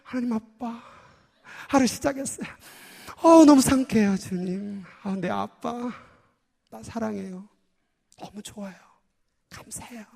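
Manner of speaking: quiet tender prayer. Shown as a demonstration. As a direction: murmur it to your father like a child. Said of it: "좀 조용".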